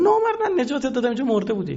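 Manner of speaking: a betrayed man protesting; indignant reproach. Retold or imitated. Betrayed rescuer reproaches the thief.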